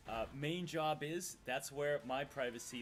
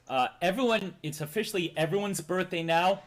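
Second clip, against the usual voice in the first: loud announcement; 11 dB louder than usual. Real, not acted. Addressing chat loudly.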